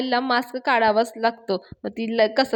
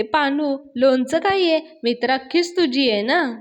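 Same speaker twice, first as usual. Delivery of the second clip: retold sweet-talk; 3 semitones higher than usual. Payal tries to soften angry boyfriend, sweet-talk. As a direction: imitate a girlfriend coaxing sweetly. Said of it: "पायल त्याच्याशी खूप गोड बोलायला जाते".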